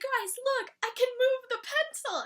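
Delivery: high and eager; proud kid. Retold or imitated. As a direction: show off like a proud child. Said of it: "He's like".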